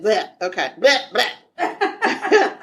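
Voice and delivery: croaky bleh clearing the voice; hoarse throat-clearing blehs; raspy whisper. Real, not acted. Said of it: "I'm losing my voice".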